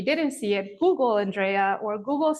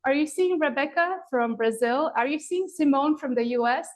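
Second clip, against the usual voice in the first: mock yelling at absent students, pitched up; retold excited yell; 4 semitones higher than usual. Yoga teacher calling to distant students, excited. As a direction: shout at the TV as if students could hear. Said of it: "yelling at my students who are nowhere near me".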